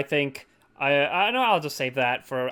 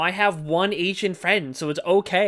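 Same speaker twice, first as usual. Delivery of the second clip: mock defensive; 4 semitones higher than usual.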